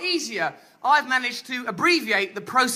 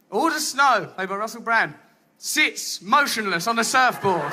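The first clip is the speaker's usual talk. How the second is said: flat deadpan script reading; 4 semitones lower than usual. Shown as a demonstration. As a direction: read it dry and deflated. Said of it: "What was actually filmed was".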